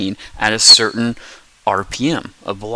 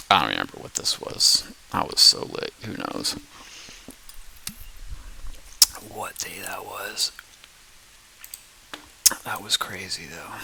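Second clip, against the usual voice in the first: muttering aside; 8 dB quieter than usual. Real, not acted. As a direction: drop the voice, half to yourself. Muttered aside about old footage.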